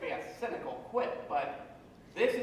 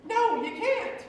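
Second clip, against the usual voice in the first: passionate; 9 semitones higher, 4 dB louder, slower than usual. Real, not acted. Narrator passionately insists on living.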